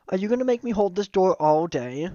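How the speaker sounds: loud, high-pitched mock impatience; exasperated character voice. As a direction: play someone fed up with waiting. Character complains while holding the door.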